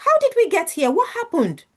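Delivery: sudden alarm at her tears; startled. Retold or imitated. Father shocked to see daughter crying.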